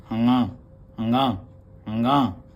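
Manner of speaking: हंगा said slowly and clearly, nasal ng; letter name demo. Shown as a demonstration. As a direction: sound out हंगा for the class, ending with a falling tone. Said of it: "पता होना चाहिए इसका उच्चारण कैसे है". (हंगा को धीरे और साफ़ बोलना)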